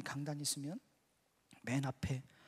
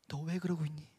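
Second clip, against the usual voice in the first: offhand, in passing; casual offhand question; 2 semitones lower, 4 dB quieter than usual. Retold or imitated. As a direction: ask it like a passerby, barely invested. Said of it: "마치 지나가는 사람이 어깨에 툭 치듯이".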